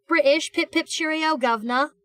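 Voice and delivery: a light hammed-up British accent; playful fake British slang, British accent; mock British accent. A Yank teasing British chat, mock British accent. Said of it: "Yanks make fun of you".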